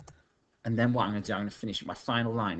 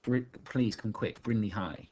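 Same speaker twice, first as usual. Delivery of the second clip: a slightly raised, mildly urgent call; mock bellow; 3 semitones higher, 4 dB louder than usual. Shown as a demonstration. Teacher demonstrating a bellow down the phone, mock urgent. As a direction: call for help, only half raised. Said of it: "I bellow".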